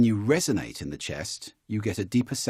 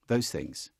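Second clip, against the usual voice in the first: ordinary delivery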